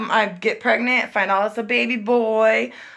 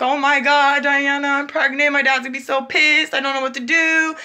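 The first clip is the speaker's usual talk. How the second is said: retold panicked crying; 4 semitones higher than usual. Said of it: "I was crying, crying".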